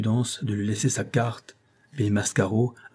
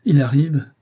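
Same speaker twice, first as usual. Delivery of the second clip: gémissant; 5 semitones higher, 7 dB louder than usual. A narrator's reading. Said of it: "gémit monsieur de Clinchamp".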